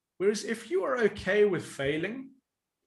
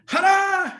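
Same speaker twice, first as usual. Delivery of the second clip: mock ta-da; 13 semitones higher, 10 dB louder than usual. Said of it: "you do something and you go".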